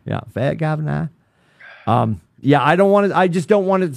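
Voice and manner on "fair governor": mock Australian with dropped r's on "fair governor"; put-on Australian accent. Shown as a demonstration. Joking about the spouse's Australian accent, mock Australian accent. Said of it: "I don't even say it with an accent".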